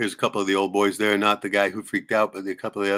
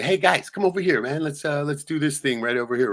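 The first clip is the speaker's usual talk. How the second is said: put-on raised, higher, coaxing call to the kids; calling children away from an angry horse master, higher and louder; calling the kids over; 6 semitones higher, 3 dB louder than usual. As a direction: hurry the kids away, loud and friendly. Pulling kids away from scene.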